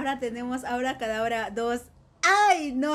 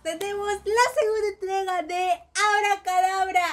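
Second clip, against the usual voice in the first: excited; 4 semitones higher than usual. Real, not acted. Anuncia el título con entusiasmo.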